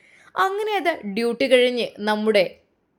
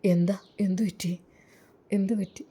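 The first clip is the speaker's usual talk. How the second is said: whispered concern. Acted. Worried asking what happened.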